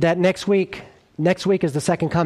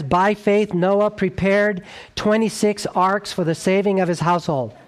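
slow, deliberate wrong number read as if true; mock misreading; 2 semitones higher than usual. Shown as a demonstration. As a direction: read the wrong number slowly, straight-faced. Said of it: "Was it seventy-five arks?".

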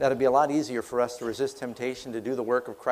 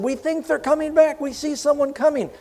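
much higher, eager calling out; excited lookout; 10 semitones higher than usual. Acted. Sentinel calls to Moses that the spies return, excited. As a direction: spot them and sing out the news.

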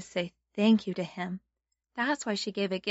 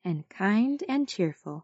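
sunday school teacher. Shown as a demonstration. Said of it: "pray together".

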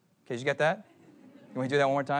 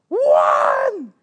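put-on high, loud kid's yell; sudden loud shout; 9 semitones higher, 9 dB louder than usual. Little brother suddenly yells a count from the back. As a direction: blurt it out at full volume. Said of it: "Really loud".

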